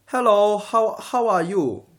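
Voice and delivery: high, loud Asian accent, keeping the L in "Hello"; slow, exaggerated Asian accent greeting; mock Asian accent without R's. Shown as a demonstration. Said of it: "if you don't do it with the R's".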